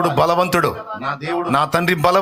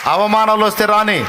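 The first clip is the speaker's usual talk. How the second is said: call to repeat; 2 semitones higher than usual. Shown as a demonstration. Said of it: "congregation repeats after him".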